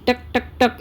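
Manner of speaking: short, separated clicks spoken aloud; imitated clicking. Shown as a demonstration. Teacher demonstrates the robot's clicking sound, imitated clicks. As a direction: mimic a clicking machine, tak by tak. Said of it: "એવો અવાજ આવ્યો".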